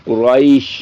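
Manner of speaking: قریش with a full, heavy ra. Shown as a demonstration. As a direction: say قریش with a thick, rounded ra. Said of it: "تو یہ بھی پر ہے".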